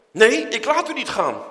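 high, loud refusal to let go; cling on and refuse him; fierce plea. Acted. Jacob to the angel, loud insistent high plea.

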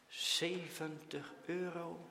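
slow, hushed announcement; slowly. A narrator's reading. Teacher announcing the sum to the boys, slowly. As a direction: let each word land slowly. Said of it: "Dan zegt hij langzaam".

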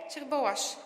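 ordinary delivery

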